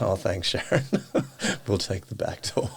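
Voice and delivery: thanking through laughter; amused, chuckling thanks; laughing. Retold or imitated. Replying to neighbour Sharon about paparazzi, laughing.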